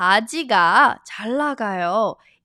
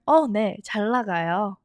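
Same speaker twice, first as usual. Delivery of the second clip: clerk's answer; much faster than usual. Shown as a demonstration. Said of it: "And then they'll answer".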